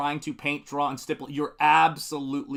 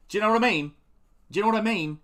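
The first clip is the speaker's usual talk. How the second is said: broad northern English "Do you know what I mean", pitched up and loud; northern English accent; 7 semitones higher, 5 dB louder, faster than usual. Retold or imitated. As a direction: mimic a Yorkshire lad asking it. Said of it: "people from the north in England going".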